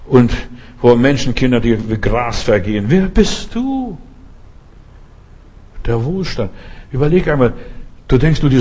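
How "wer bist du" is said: challenging question. Acted. Preacher confronting listener, rhetorical.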